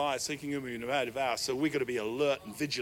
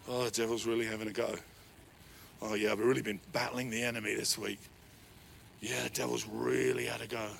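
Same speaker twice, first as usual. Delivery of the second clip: lower, softer mock complaint; mocking whiny Christian; 5 semitones lower, 5 dB quieter than usual. Preacher mocking Christians who talk up the devil. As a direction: lightly imitate a churchgoer moaning about the devil. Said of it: "I talk to some Christians".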